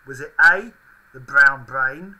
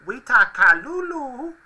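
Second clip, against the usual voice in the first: high Furby voice; 8 semitones higher, 4 dB louder, slower than usual. Pretend. Reading out made-up Furby phrases.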